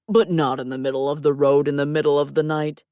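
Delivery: complaining character voice. A narrator's reading. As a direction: play him loud and unhurried, mock-aggrieved. Clay's put-on voice, complaining.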